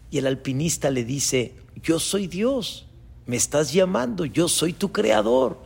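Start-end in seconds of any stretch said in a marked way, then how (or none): 1.8-5.6 lightly acted voice of God; measured, slightly raised divine announcement. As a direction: declare yourself the Creator, lightly played. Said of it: "Y esa voz dice".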